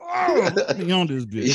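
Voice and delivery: high, squealing mock excitement; mock eager squeal. Mimicking eager people online, high mock squeal. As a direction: squeal it like an overeager fan.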